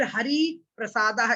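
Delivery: हरि प्रसादः as "haree prasadah", words apart; unjoined long vowel. Shown as a demonstration. Teacher showing when not to join, हरि प्रसादः as haree prasadah. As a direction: lengthen हरि and start प्रसादः separately. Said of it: "इस प्रकार से पढ़ते".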